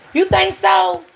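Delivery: high, loud "you think so?"; high incredulous squeal. Real, not acted. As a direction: push the doubt up high and loud. Mock skeptical reply to comment.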